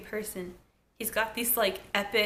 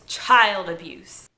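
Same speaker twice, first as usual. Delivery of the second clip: mock scream; 2 semitones lower, 5 dB louder, much slower than usual. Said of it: "So he screams".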